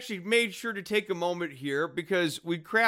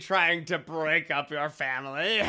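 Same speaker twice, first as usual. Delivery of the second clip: laughing; much slower than usual. Acted. Villain scene continued, laughing.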